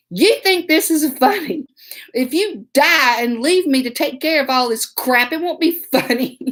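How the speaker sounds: mild mock scolding, rising in pitch; indignant, held-back mock yell; retold angry yell. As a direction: scold him in a half-yelled retelling. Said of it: "I yelled, y'all".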